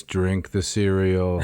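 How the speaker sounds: slow, drawn-out ghostly voice; spooky voice. Pretend. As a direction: moan it like a ghost. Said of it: "Says in a spooky voice".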